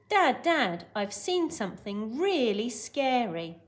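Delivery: lightly acted boy calling urgently to Dad; mock shout. Teacher acting Hogarth running home, mild mock shout. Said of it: "Because he's shouting it".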